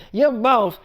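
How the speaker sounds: emphatic, scolding ultimatum; fed-up mother. Retold or imitated. Mother ordering grown daughter out of her house, fed up. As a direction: lay down the law, acted mom rant.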